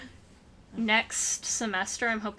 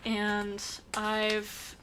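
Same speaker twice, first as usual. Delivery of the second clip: drawn-out, distracted delivery; slow, absent-minded lead-in; slow talking. Real, not acted. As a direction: stretch the words while busy with something else. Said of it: "sorry, I'm talking so slow".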